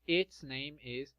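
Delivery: "Its" spoken slowly and clearly; slow careful model line; slow model sentence. Shown as a demonstration. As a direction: spell it out slowly for learners. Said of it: "O nome dela is Saint James".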